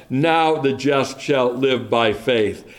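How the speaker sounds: "Now" leading, the rest slow and falling; stress on Now. Shown as a demonstration. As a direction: dwell on "Now", then step slowly downward. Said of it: "the emphasis is on now".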